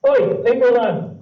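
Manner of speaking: high, loud squeaky cat yelling; an annoyed cartoon cat shrieking. Shown as a demonstration. Recorded cat sound plays back.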